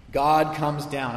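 every word God comes down drawn out slow and even; slow emphatic. Shown as a demonstration. Preacher repeating his main line to the congregation, slow and deliberate.

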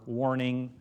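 lightly flat robotic repetition; a hint of a droning machine voice; mock robot saying warning; monotone robot. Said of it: "in this monotone voice".

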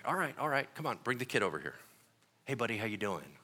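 a lightly voiced calm Jesus talking to the kid; calm and easy. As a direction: settle everyone down gently. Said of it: "He's like".

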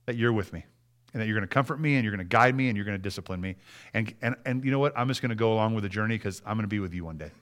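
soft, earnest talk to God; quietly entrust yourself, halting at first; subdued, sincere prayer of trust. Shown as a demonstration. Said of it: "we need to stop and say".

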